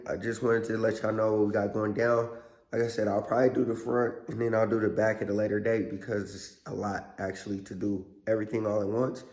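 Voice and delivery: strained hoarse voice, sore throat. Real, not acted. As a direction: speak gently through a hoarse throat. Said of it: "is hoarse and it kinda hurts to talk".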